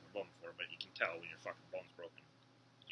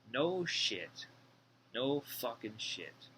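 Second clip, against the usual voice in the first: loud, higher sarcastic jab, then drawn out slowly; sarcastic no shit; 3 semitones higher, 4 dB louder, much slower than usual. Real, not acted. Ex-inmate mocking the doctor's obvious news, sarcastic and loud. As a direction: scoff at the obvious, stretching the second line.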